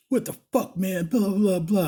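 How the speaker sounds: high, loud retold complaint; mock outrage. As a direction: fake indignation, voice jumping up. Retold fake outrage at manager.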